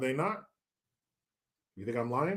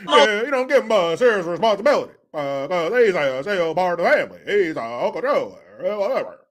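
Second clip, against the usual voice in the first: Barry Obama. Retold or imitated. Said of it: "Now you hear his voice".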